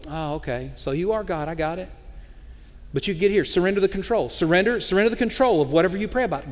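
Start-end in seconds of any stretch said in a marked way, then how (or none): 0.1-1.9 sheepish aside. Retold or imitated. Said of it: "And you'll go".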